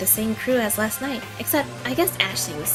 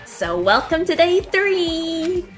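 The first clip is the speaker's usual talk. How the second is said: slow, drawn-out host welcome; fighting game announcer; 6 semitones higher, 7 dB louder, much slower than usual. Acted. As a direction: announce it like a showman. Killing Game announcer speaks.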